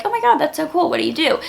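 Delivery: high, gushing mock enthusiasm; imitated excited reaction; impressed excitement. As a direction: gush like a wowed stranger. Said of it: "people just are like".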